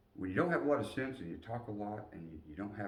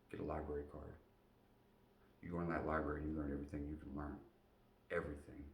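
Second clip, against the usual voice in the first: calm advice; 2 semitones lower, 4 dB quieter than usual. Retold or imitated. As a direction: counsel him quietly like a caring sergeant. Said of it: "He goes".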